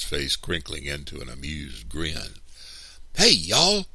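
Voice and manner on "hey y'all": loud, high holler to the crew; yelling. A narrator's reading. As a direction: holler for your workers' attention. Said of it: "Mister Anderson yelled to the lumberman".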